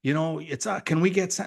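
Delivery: mildly frantic mock plea, rising in pitch; freaking-out callers. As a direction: mimic excited callers asking a favour. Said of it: "they're freaking out and they're calling saying".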